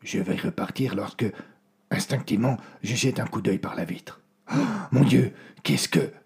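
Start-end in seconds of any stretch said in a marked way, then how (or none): 4.5-6.1 a sudden rise of alarm, louder and higher; startled as the figures appear; shocked gasp. Acted. Sailor spotting the glowing figures through the window, startled.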